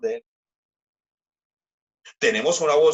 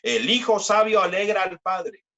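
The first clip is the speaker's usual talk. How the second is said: preacher proclaiming the verse; proclaiming scripture; 6 semitones higher than usual. Acted. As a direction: lift the verse up to the room. Repeated proclamation.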